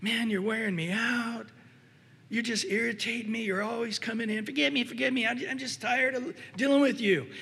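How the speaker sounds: irritated, impatient voice rising to a shout; mock annoyed complaining, building to a near shout; Satan as an exasperated god. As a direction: sigh it out, fed up and worn out by the asker. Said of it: "he's like".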